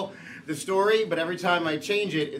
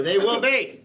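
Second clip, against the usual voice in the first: crowd cue; 4 semitones higher, 4 dB louder, slower than usual. Pretend. Host cues crowd to shout back.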